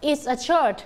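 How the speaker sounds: "It's a shirt" with "It is" shortened to "It's"; teacher's short-form "It's a shirt"; contracted form. Shown as a demonstration. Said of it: "เราจะพูดว่า".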